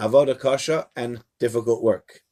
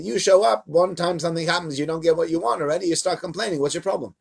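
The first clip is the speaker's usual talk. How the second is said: scolding God; 4 semitones higher than usual. Acted.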